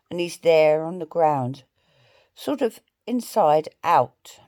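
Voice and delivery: measured poetry recital with long pauses between lines; deliberate, spaced-out verse reading; slow poem reading. Real, not acted. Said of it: "I'm gonna read it slowly".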